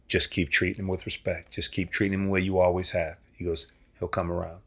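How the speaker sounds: soft, steady fatherly counsel; gentle advice. Retold or imitated. Dad quietly advises son to stay respectful. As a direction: reassure like a wise dad.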